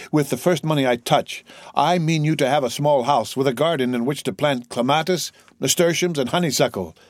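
put-on lifted, hopeful young man's voice; eager young son. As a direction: promise a father a happy future.

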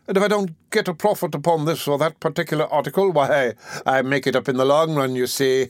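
an oily undertaker angling for profit; fawning undertaker. Acted. Undertaker speaks to beadle.

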